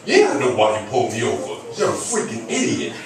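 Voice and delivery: loud, high, mounting mock rant; hammed-up exasperated tirade; indignant driver. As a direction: tear into the cop in pretend outrage. Acted rant at traffic cop.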